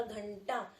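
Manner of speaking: घंटा with the nasal sound clearly through the nose; nasal demo. Shown as a demonstration. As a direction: let घंटा ring in the nose on the ं. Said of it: "ध्वनि निकली मेरी नाक से".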